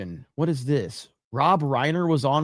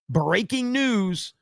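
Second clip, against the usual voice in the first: sarcastic drawl; 5 semitones higher, much slower than usual. Real, not acted. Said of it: "you're telling me".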